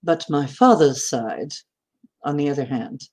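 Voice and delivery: light Danish accent from father's side. Shown as a demonstration. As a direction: demonstrate a mild Danish accent. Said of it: "we're Danish".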